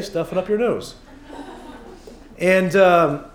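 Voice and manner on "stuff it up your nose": laughing retort. Retold or imitated. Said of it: "that's what he would say".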